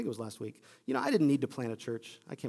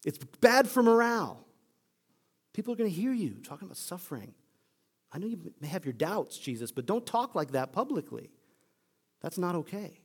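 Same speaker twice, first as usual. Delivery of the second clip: Peter's rebuke; 4 dB louder than usual. Acted. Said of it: "he rebukes him".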